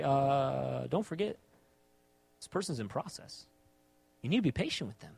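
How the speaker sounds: soft, understated counselling tone; gentle reminder. Retold or imitated. Pastor reminding married people of patience, gentle reminder. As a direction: remind them quietly, with patience.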